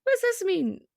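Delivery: high puzzled question; confused viewer. Retold or imitated. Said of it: "they're like".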